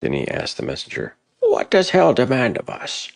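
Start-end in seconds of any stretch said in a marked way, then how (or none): 1.4-3.1 high, loud, anxious demand; anxious question. Acted. Hrothgar asking the messenger, high and anxious. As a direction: call out nervously to the enemy.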